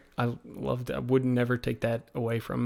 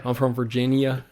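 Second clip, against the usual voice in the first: lightly exaggerated American Southern accent; put-on Southern drawl; 5 dB louder than usual. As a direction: introduce yourself with a touch of Southern drawl. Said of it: "I would turn on the accent very hard".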